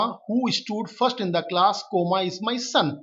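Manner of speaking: very slow, word by word, with the commas spoken aloud; slow dictation reading. Shown as a demonstration. Teacher dictating the combined sentence, very slowly. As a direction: dictate it slowly with every pause marked. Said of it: "teacher reads the joined sentence".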